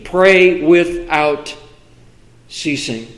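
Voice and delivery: "Pray without ceasing" drawn out slowly, dropping away at the end; slow quoted verse. Acted. Preacher quoting Thessalonians to the church, slow and deliberate.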